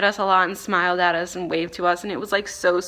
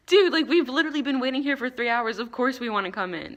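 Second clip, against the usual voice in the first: higher-pitched, mock-exasperated comeback; of course we do, obviously; retold incredulity; 6 semitones higher than usual. Retold incredulous reply after long wait.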